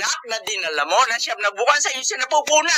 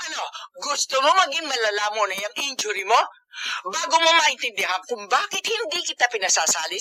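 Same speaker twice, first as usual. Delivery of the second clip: tearful scolding. Acted. Mother scolds injured son.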